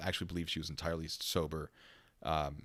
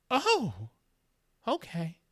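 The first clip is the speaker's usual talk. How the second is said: much higher, louder oh, then settling; startled realization; 5 dB louder, much slower than usual. Retold or imitated. Woman realizing she insulted the police, high and startled. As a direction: caught off guard.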